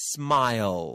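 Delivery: loud, drawn-out smile with y-glide before L; pronunciation demo. Shown as a demonstration. Teacher gives an example for co-host, loud modelled smile. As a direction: stretch smile through to the final L. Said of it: "อย่างเช่น ยิ้ม".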